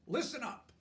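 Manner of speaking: bossy little teacher voice, commanding; pretend teacher. Girl playing teacher to her baby brother, mock-bossy. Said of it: "Lily pretended to be Mister Slinger".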